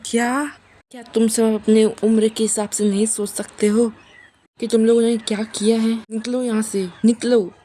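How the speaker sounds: lifted, scolding storyteller's yell; retold shout. Grandmother scolding the two and ordering them out, restrained retold shout. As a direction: act out an outburst without full volume. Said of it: "वो चिल्ला के बोलती".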